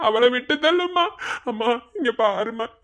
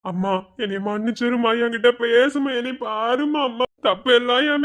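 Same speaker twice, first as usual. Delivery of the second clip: lower, tearful begging; crying plea; 3 semitones lower than usual. Acted. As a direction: beg through sobs. Son begs forgiveness. (அழுகையுடன் கெஞ்சுதல்)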